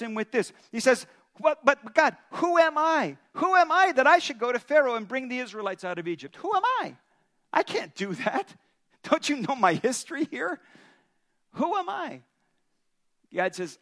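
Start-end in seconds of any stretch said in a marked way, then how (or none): 1.4-12.2 pleading Moses. Acted.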